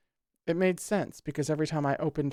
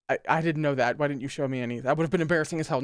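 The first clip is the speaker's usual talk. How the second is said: hurried reread; much faster than usual. Shown as a demonstration. Reader rereading the lines quickly. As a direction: rattle it off fast. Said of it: "did I even read the text?".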